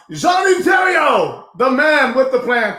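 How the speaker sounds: introducing a champion to the crowd, big and drawn out; announcer hype. Acted. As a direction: bellow the name like a fight intro. Host hypes guest like an announcer.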